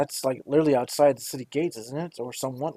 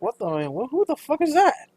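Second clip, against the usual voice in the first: high shocked outburst; startled onlooker; 10 semitones higher than usual. Acted. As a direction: blurt it out in shock. Townsfolk staring at stranger.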